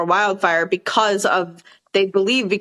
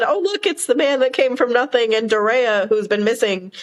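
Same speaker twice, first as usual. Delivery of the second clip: sarcastic quote; 3 semitones higher than usual. Retold or imitated. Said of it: "No, but I said".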